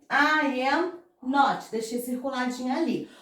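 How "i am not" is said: slow and careful. Shown as a demonstration. Teacher modelling the negative for the class, slow and careful. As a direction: spell out each word slowly. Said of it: "Olha como que fica a estrutura".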